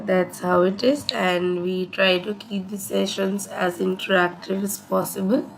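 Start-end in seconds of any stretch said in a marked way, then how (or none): 1.1-5.4 hoarse from a sore throat; talking through a sore throat. Real, not acted. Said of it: "I have a really sore throat issue".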